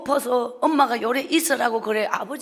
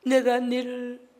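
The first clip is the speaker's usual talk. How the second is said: mother apologizing; slower than usual. Retold or imitated. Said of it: "이 말을 하지 않고".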